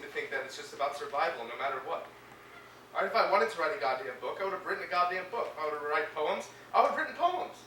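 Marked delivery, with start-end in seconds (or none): 2.9-7.6 rising frustration. Acted. Angry rejection of writing.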